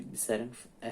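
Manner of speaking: ordinary delivery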